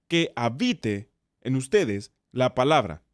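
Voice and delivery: slow, "habite" stretched and followed by a pause; single out "habite", slowly and deliberately; stress on HABITE. Shown as a demonstration. Teacher introducing another important word, stress on "habite". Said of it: "Es otra palabra muy importante".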